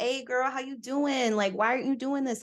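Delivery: mock the TV stereotype of a sassy Black woman; imitating TV ghetto stereotype. Mocking how TV shows Black women talk, lightly sassy and high. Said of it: "talking like".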